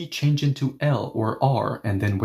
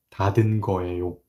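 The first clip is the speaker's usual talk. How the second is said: definite certainty; 4 semitones lower, much faster than usual. Shown as a demonstration. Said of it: "I'm delivering it with one hundred percent definite certainty".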